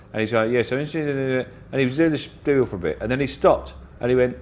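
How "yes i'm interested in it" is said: flat monotone reading. Retold or imitated. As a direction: drone it in a monotone. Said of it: "very monotone voice like this".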